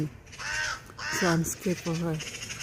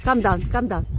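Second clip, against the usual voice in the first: loud worried call; calling the cat; 3 semitones higher, 6 dB louder than usual. Real, not acted. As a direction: coax her down, louder.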